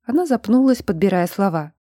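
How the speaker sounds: ordinary delivery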